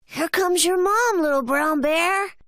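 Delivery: high-pitched cub announcing news; young bear friend. A narrator's reading. Sandy bear cub tells friend his mom is coming, high voice.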